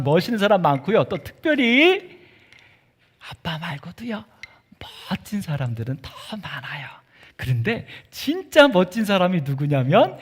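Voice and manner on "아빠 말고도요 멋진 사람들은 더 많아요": hushed stage whisper. Acted. Pastor sharing a secret with children, whisper.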